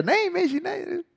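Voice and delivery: high shouted no, fading away; imitating the whole class shouting; kids yelling. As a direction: yell like a playground crowd. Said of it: "roligt att höra allihopa säga".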